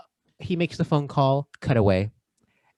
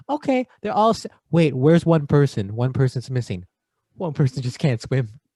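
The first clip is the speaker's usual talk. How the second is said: acted sudden realization; 5 dB louder than usual. Tony counting rescued people in the water, acted sudden realization. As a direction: start loud and pitched up, then settle. Acting out Tony's head count.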